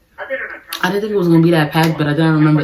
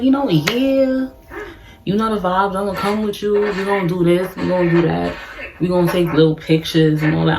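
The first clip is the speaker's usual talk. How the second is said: sweet-talking flirt; 3 semitones higher than usual. Retold or imitated. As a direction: hype him up with a light sugary voice. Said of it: "I'm talking him up bad".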